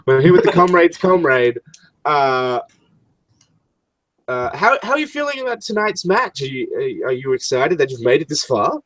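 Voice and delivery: bright TV interviewer hyping the match; wrestling reporter. Acted. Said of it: "She's like".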